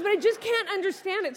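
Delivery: lightly voiced puzzled little girl; baffled child. Daughter to mom, still not getting it, baffled.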